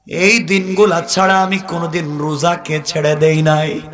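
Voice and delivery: ordinary talk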